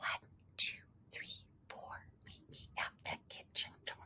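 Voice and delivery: soft, hushed whisper. Demonstrating a children's counting rhyme in two voices, whispering. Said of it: "Let's try a whisper and a shouting".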